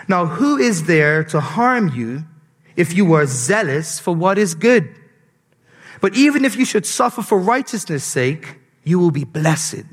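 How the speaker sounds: solemn Bible reading; scripture reading. Acted. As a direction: read the passage with weight. Reads scripture aloud.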